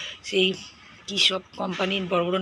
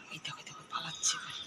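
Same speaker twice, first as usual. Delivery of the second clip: softer, whispered aside; 4 semitones lower, 9 dB quieter than usual. Real, not acted. Mother whispering to viewers as the toddler runs off.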